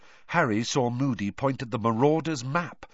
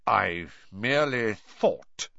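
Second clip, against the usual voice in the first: forced calm; slower than usual. A narrator's reading. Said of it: "in a voice of forced calm".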